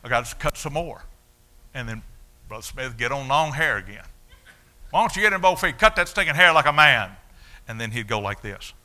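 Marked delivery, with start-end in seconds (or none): 2.5-7.1 loud, high preacher's demand; louder and higher, the preacher thundering at a long-haired boy; preacher's shout. Retold or imitated. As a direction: bellow it like a fiery preacher.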